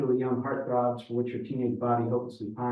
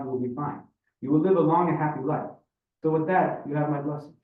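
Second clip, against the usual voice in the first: put-on higher-pitched, animated Russian-accented speech; Ivan, expounding on marriage; 4 semitones higher than usual. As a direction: lecture like a Russian father giving his blessing. Voices Ivan's marriage speech.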